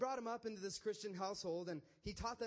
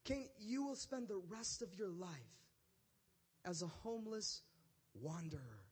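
God. Acted. God pronounces sentence on Cain.

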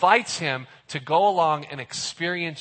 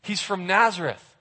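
excited Philip; 3 semitones higher than usual. Retold or imitated. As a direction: spill the news to your friend. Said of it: "He gets all excited".

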